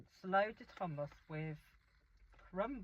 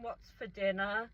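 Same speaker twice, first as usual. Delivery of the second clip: mild mock shout, a bit louder; retold shout; 2 semitones higher, 6 dB louder than usual. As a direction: call out to mom, half-shouted. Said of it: "she's shouting".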